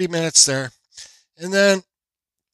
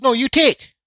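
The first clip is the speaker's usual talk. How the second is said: high mock voice of the cashier, pitched up; imitating the cashier; 10 semitones higher, 6 dB louder than usual. Retelling the hot dog cashier's order, mock high voice. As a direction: put on the cashier's voice, higher and a bit louder. Cashier pushes receipt back.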